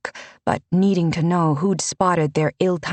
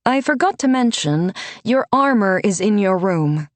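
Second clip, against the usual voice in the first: stern but proud mentor; 4 semitones higher than usual. Acted. Renata lectures Alessa about choices, higher and proud. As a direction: chide first, then let pride show.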